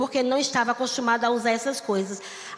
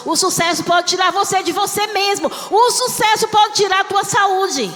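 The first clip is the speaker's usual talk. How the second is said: shouted preaching; 5 semitones higher, 7 dB louder than usual. Acted. Pastor to congregation on success with God, shouting. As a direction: cry it out over the church, building.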